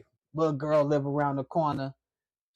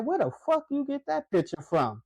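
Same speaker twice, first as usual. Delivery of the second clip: a mock snapping girl, pitched up; imitating her; 7 semitones higher than usual. Girl confronting him over the picture, mock snapping. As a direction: mimic the girl demanding about the photo. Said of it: "she said it just like this".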